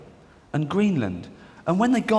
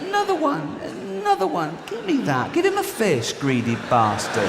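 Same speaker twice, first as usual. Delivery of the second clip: high, grabby squeak demanding more fish; greedy fisherman; 12 semitones higher than usual. Acted. Man with a fishing rod grabs for more fish, high greedy squeak.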